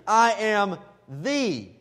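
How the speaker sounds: "the" drawn out slowly and leaned on; slow down and lean hard on "the"; stress on THE. Shown as a demonstration. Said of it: "Notice he doesn't say".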